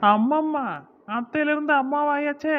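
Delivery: high, loud playful jibe; loud, high-pitched ribbing; teasing mock amazement. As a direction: exclaim in exaggerated wonder to tease. Teases aunt becoming mother.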